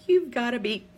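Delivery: loud, high-pitched retold outburst breaking into laughter; laughing disbelief. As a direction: exclaim it in mock outrage, laughing through it. Retelling blunt outburst at doctor's news.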